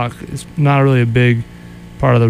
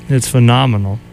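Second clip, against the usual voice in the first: monotone. Real, not acted. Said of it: "a very monotone voice".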